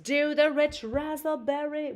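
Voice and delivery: high mock yell; mock scream. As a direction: call it out like an excited fan. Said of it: "And Irene screamed".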